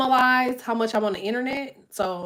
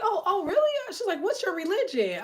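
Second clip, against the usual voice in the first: imitating the woman; 9 semitones higher, 4 dB quieter than usual. Imitates the woman questioning her.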